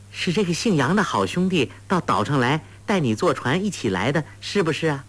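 a hint of a sweet coaxing young girl; lightly voiced clever girl. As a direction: lift the voice a little to coax a simple girl. Huang Rong probing gently.

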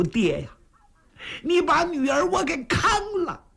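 inward lament. Acted. Bride silently reproaching her father over the match, plaintive lament. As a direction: silently wail at a father who betrayed you. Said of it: "暗中叫苦".

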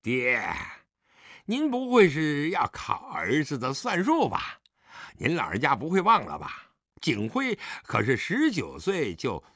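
mild mocking swagger; insolent, tipsy goading; sneering. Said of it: "狄景辉冷笑道".

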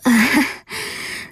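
weak, strained little laugh; forced laugh. A narrator's reading. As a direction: squeeze out a laugh with difficulty. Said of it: "艰难地笑道". (艰难地干笑)

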